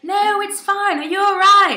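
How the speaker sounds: high-pitched imitated reassurance; imitating a reassuring friend. Imitating Garrett answering the apology, mock reassuring. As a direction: pitch it high, insisting it is fine.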